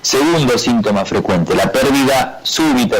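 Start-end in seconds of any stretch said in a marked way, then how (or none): 1.5-3.0 súbita leaned on with a falling tune; stress on súbita. Shown as a demonstration. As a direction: hit the word súbita clearly. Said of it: "siempre te remarco la palabra súbita".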